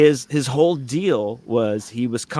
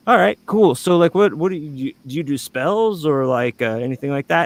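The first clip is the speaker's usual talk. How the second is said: mimicking the weird coworker; 4 semitones higher than usual. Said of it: "he's like".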